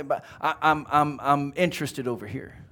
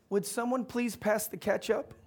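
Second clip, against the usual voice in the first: put-on higher, softer voice of a timid boy; small, higher-pitched polite request; little boy asking politely; 6 semitones higher, 4 dB quieter than usual. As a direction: ask meekly, barely intruding on the room. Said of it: "they hear this little voice".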